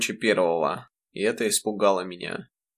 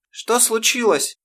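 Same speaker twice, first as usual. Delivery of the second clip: much higher, slow frightened call; mother panicking at the scene; Что случилось, cried out in alarm; alarmed cry; 13 semitones higher, 3 dB louder, slower than usual. Acted. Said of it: "закричала мама".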